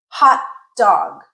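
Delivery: "Hot dog" with a glottal stop, no released t; glottal stop again. Shown as a demonstration. Teacher repeating the correct "Hot dog" with a glottal stop. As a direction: cut "Hot" short before "dog". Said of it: "Okay, listen again".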